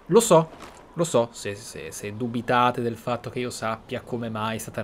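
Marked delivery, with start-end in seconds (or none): none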